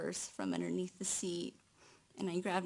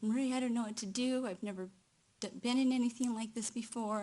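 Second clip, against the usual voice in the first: quick, a touch higher, mildly panicked quote; lightly voiced panic of a frightened friend; 4 semitones higher, faster than usual. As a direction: imitate a scared friend lightly. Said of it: "she was really upset".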